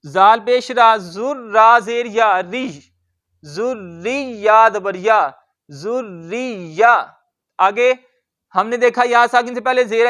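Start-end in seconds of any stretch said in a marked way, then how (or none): 0.1-6.9 slow spelling out of letters. Shown as a demonstration. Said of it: "अब देखें जरा".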